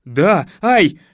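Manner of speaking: loud pained yelp; exclaimed. Acted. Man answers while the razor bites, crying out. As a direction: cry out mid-answer in pain. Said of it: "воскликнул я".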